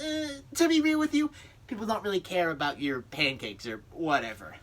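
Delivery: high, loud goofy celebrity impression; Adam Sandler. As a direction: play the dopey pal greeting Satan. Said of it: "Adam Sandler".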